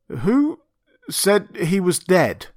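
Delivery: high-pitched, drawn-out challenge; sharp questioning. Acted. Montgomery challenges the beast folk.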